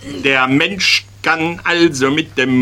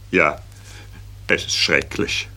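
low, breathy lovesick whisper; boy confessing to teacher, sighing and hushed; 11 semitones lower, 7 dB quieter than usual. Acted. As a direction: sigh it like a boy in love.

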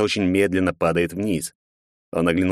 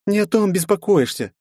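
gloomy; 13 semitones higher, 3 dB louder than usual. A narrator's reading. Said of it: "хмуро ответила Ариэль".

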